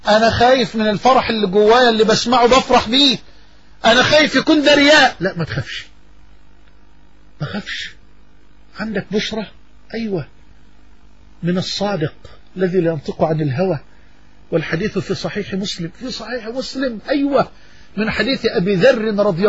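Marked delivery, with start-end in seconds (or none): 0.1-5.2 worried believer. Retold or imitated. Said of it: "تقول". 5.2-17.0 soft reassurance. Real, not acted. Reassuring the anxious believer.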